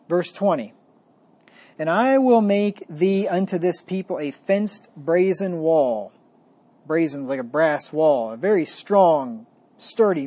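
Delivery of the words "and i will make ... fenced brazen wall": slow, solemn reading of the verses; scripture reading. Acted. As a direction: read it like holy writ, weighty and measured. Reads scripture aloud.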